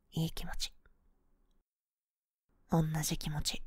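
soft breathy whisper. Acted. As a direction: whisper it close to the ear. Whispered comfort in embrace.

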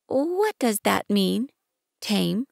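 little prince. Acted. Narrator voicing little prince.

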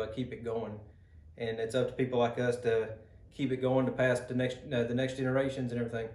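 speaking past pipe mouthpiece; talking around pipe stem. Real, not acted. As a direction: pipe clenched between lips. Seen 1: pipe held at lips, stem in mouth in several frames.

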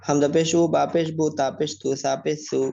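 rhythmic, even-toned letter-by-letter spelling drill; recitation drill. Shown as a demonstration. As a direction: chant out the letters evenly for learners to follow.

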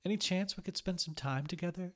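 put-on ex-girlfriend pleads at the window, wistful. A narrator's reading. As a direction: ask hoping he'll say yes. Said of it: "she asked wistfully".

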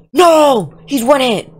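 loud squealed protest; high-pitched frustrated cry. Real, not acted. Gamer with an enemy one hit away, frustrated squeal.

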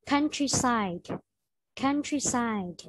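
slow "Countryside" with the final d sounded; clear ending sound. Shown as a demonstration. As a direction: model "Countryside" slowly, landing on the d. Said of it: "note the ending sound". (đọc chậm "Countryside", rõ âm cuối d)

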